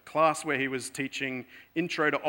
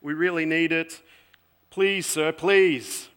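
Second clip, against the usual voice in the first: pleading, rising louder to a desperate please; begging students; 3 semitones higher, 5 dB louder than usual. Retold or imitated. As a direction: beg the professor for mercy. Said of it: "then they start the begging".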